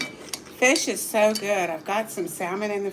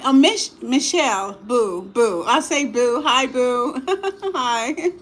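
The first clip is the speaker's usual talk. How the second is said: excited greeting; 3 semitones higher, 4 dB louder, slower than usual. Real, not acted. Greeting a viewer warmly.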